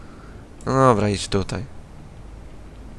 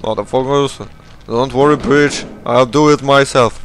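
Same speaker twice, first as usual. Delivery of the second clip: mock angry yell; 4 semitones higher, 7 dB louder than usual. Yelling at game characters.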